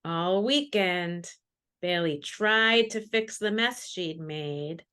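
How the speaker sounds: put-on slow, gentle read-aloud for children; measured, dramatic picture-book narration; storybook reading. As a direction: savor each line as if reading to a class.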